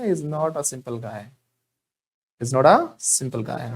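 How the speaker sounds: slow, word-by-word classroom model; slow teacher drill; slow model sentence. Shown as a demonstration. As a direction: spell it out slowly for the class. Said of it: "कैसे बोलेंगे".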